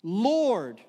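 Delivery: a loud call of Lord; shouting. A narrator's reading. Canaanite woman shouting to Jesus for help. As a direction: cry out Lord to be heard. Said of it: "she starts shouting".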